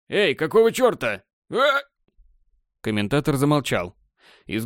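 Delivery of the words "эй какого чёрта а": удивление, срывающееся в высокий крик; оборви фразу внезапным вскриком; испуганный вскрик. Acted. На комментатора нападают в эфире.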